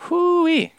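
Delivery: high-pitched drawn-out "whoo-wee"; high whoo-wee exclamation. Real, not acted. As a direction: let out a high, wordless whoop. Exclaims after mocking own accents.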